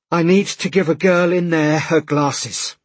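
high, loud, laboured plea; breathless urgency. A narrator's reading. Man to official after running, breathless and urgent. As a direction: push each word out after a sprint. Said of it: "breathing hard".

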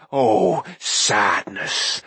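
mournful whining sigh; moaning creature. A narrator's reading. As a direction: moan it like a sad little beast. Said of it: "Gurgi moaned".

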